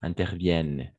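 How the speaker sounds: "interviennent" ending on a sounded n, no -ent; silent -ent ending. Shown as a demonstration. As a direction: model "interviennent" with the final -ent mute. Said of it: "E N T à la fin, on ne prononce jamais". (« interviennent » avec -ent final muet)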